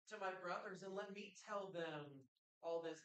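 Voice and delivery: lightly voiced rich man ordering Lazarus around; demanding rich man. Rich man in torment asks Abraham for help, insistent and demanding. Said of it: "the rich man never once asks to leave".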